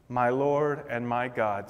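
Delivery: low, soft and slow, a hint of tears; through tears. Thomas answering Jesus, softly tearful. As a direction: hush it out, lightly tearful. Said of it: "maybe through tears".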